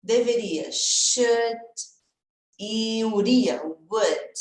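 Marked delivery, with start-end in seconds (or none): 0.7-1.6 "should" said alone, drawn out with a short oo; "should" with the same ending as could and would; pronunciation model. Shown as a demonstration. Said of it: "o som vai ser igual pros três". 3.9-4.3 "would" said alone with a short oo; "would" with the same ending as could and should; pronunciation model. Shown as a demonstration. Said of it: "É o mesmo som os três".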